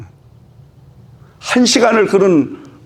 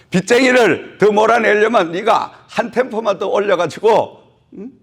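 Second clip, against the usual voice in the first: 열띤 설교; 7 semitones higher than usual. Acted. 설교 절정의 높은 목소리.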